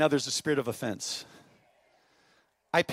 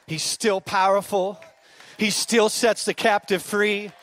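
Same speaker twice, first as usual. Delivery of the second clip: slow, deliberate preaching that swells louder; slow building preach; 5 dB louder, slower than usual. Acted. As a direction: build it line by line.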